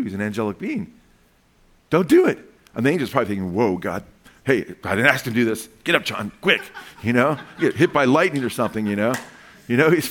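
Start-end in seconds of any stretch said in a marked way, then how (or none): 1.9-2.4 urgent call. Retold or imitated. Angel stops John. 3.5-6.6 panicked angel. Retold or imitated.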